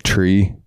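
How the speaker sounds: Tree said for three, no TH; Irish Tree for three. Retold or imitated. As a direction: say Tree with a hard T. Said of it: "they don't have the T H".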